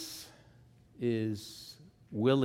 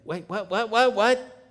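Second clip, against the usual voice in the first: mock surprise; 11 semitones higher, 11 dB louder than usual. Mock shock at odd meaning.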